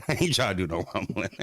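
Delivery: laughing through the words "ain't trying". Real, not acted. Streamer laughing to chat about the fight. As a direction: say it while cracking up.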